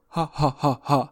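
mock fake laugh, evenly spaced ha-ha-ha; imitated fake laugh. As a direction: imitate someone's polite pity laugh. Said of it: "is fake laugh".

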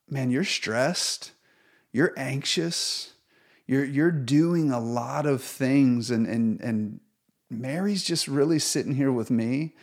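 calm him down like a patient friend; gentle rebuke. Retold or imitated. Jesus gently corrects Martha.

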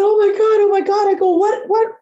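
very high, emotional exclaiming; retold overwhelm. Dog owner overcome by rescue, retold high-pitched amazement.

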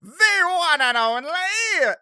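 very high, loud, drawn-out showman; triumphant skeleton. Acted. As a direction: proclaim yourself slowly like a grand celebrity. Skeleton basks in recognition.

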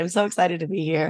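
real husky, hoarse voice. Real, not acted. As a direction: speak with a husky, hoarse throat. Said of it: "You've got your husky voice on".

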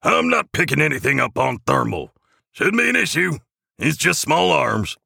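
high-pitched little elf voice; elf crewman. A narrator's reading. Jingleman reports no thermal contact to Santa, high elf voice. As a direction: report in a squeaky voice.

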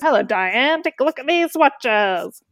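retelling a friend's Cary Grant bit, slow and suave; Cary Grant impression. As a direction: purr it like a classic film star. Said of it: "how he does the impression".

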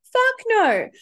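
doubled-down loud no. Real, not acted. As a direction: push the repeat harder. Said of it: "repeated emphatic denial".

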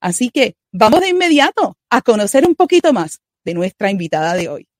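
smooth announcer read over music; radio intro read. Acted. Host introducing the guest to listeners, announcer read. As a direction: present the guest like a broadcast host.

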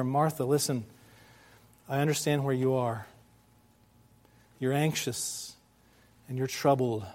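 soft, understanding reassurance with long pauses; compassionate. Acted. Jesus soothing anxious, troubled Martha, compassionately. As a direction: gently acknowledge her worry, unhurried. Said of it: "it's compassion".

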